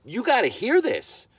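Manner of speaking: high and slow, laying down the law; stern warning. Retold or imitated. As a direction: make him listen, slow and firm. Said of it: "drilling into the guy".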